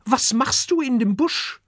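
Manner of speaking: put-on high, loud child call; little dragon calling loudly at a stranger in the bush. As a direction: shout it out suddenly at the bush. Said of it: "ruft er plötzlich".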